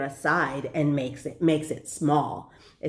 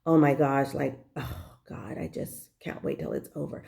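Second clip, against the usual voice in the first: mock scared whining; 4 semitones lower, 4 dB quieter than usual. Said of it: "We're like".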